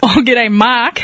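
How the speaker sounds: mock Aussie greeting; hammed-up Aussie g'day; Australian accent. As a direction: greet a mate in playful broad Australian.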